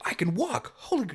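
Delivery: high-pitched mock excitement; excited. Voicing the game hero finding he can walk, excited. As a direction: leap up high, playing thrilled disbelief. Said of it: "your dude's excited 'cause he can walk again".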